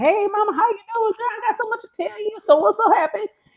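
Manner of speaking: very high, gossipy, chatty rooster voice. Telling how the rooster crows while eggs are collected: voicing Leo the rooster. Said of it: "He's like".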